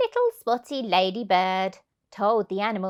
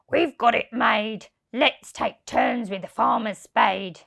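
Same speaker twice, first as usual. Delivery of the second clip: lightly voiced smug crook; gloating thieves; 4 dB louder than usual. Thieves gloating to each other, lightly voiced. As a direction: gloat over the prize. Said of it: "The two thieves laughed".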